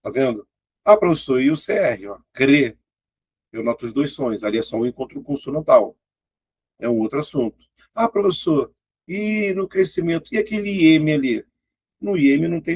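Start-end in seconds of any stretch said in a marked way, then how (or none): 0.8-2.1 imagined student asking. Pretend. Teacher voices an imagined student. 7.9-11.5 higher pitched student asking; imagined student asking. Pretend. Teacher playing a student asking about crescimento, higher.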